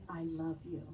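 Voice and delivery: quiet, tender I love you; soft affirmation. Shown as a demonstration. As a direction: let it drift down gently. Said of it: "a state of reception here".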